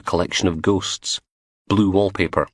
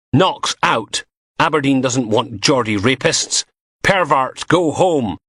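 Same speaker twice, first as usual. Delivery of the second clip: crowd shouting; 6 semitones higher, slower than usual. Acted. Crowd chanting outside house.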